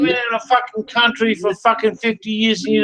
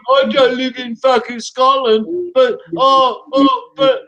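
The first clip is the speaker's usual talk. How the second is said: higher, whiny mock voice of the man he insults; mocking imitation; 3 semitones higher than usual. Taunting the old man he's arguing with, mocking higher whine. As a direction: ham up a dim, confused victim.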